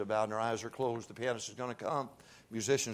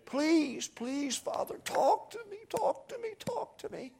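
hushed, breaking plea that climbs higher on each "talk to me"; pleading prayer; 12 semitones higher, slower than usual. Retold or imitated. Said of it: "You ought to come down and say".

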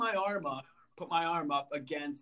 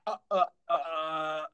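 stuttering. Retold or imitated.

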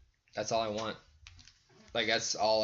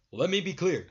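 raised-pitch presidential catchphrase voice; Obama impression; 6 semitones higher than usual. Friend trying out a president impression, mock statesmanlike. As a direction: attempt a president's measured address, about to crack up. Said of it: "I can maybe do the Obama voice".

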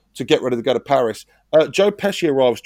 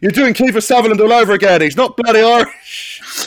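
exasperated correction; 6 semitones higher, 6 dB louder than usual. Real, not acted. Correcting the Irish impression.

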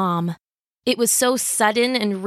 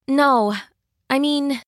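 put-on young girl's voice; 6 semitones higher, slower than usual. A narrator's reading. Jill voiced higher.

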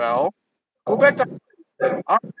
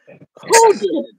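van driver; 14 semitones higher, 5 dB louder than usual. Acted.

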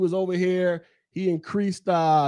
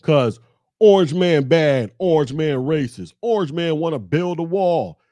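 slogans hammered out mockingly, louder; 5 dB louder than usual. Mocking voters who repeat anti-Trump slogans, loud and scornful. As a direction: parrot the slogans back with scorn.

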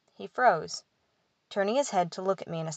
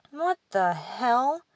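startled; 5 semitones higher, much slower than usual. A narrator's reading. Angry rapping startles them.

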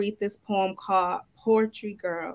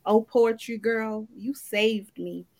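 slow, rhythmic poetry recital with swelling lines; spoken word poem. Acted. Poet reciting to the ladies at the open mic, slow and rhythmic. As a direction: perform it like a spoken word piece, savoring each line.

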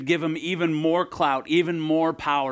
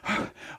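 breathless gasp; 6 dB quieter than usual. Acted. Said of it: "He's out of breath".

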